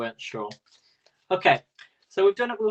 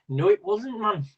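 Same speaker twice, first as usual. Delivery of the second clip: bad imitation of Caroline's accent; 6 semitones higher, 4 dB louder than usual. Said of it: "it's the worst accent ever".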